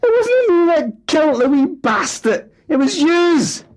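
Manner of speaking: very high, loud, strained outrage; father shrieking denial at family; outraged denial. Acted. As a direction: explode in wounded defence. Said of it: "was too much for Fat Alan".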